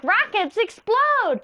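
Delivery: Woody, squeaky and slow, points out that rockets explode; high slow warning. Retold or imitated. Woody warns Buzz.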